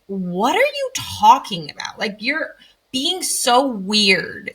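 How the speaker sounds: drawn-out, incredulous mock kid complaint; baffled kids. Kids reacting to a parent's talk, incredulous. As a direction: stretch it out like a kid put off by a parent.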